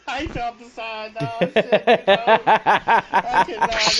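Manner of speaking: excited shout. Real, not acted. Excited shout during game play.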